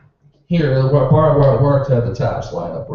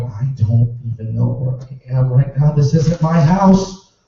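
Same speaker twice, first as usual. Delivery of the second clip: confused homeowner; 3 semitones lower, 3 dB louder than usual. Retold or imitated. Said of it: "this guy's going".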